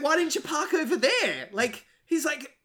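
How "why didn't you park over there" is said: much higher, laughing put-on voice; laughing mock quote. Host quoting the parking scene, high and laughing. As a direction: quote it while cracking up.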